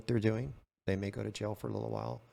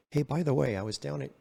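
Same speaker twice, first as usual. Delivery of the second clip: Columbo act; 5 semitones higher, 5 dB louder than usual. Retold or imitated. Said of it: "the whole Columbo thing".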